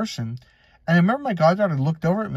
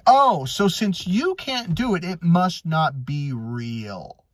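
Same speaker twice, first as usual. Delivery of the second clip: sarcastic mock; much slower than usual. Mocking the skeptic's logic.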